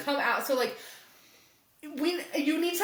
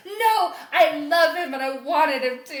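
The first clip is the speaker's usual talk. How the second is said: defiant daughter; 5 dB louder than usual. Retold or imitated. Daughter defying father in acted quarrel.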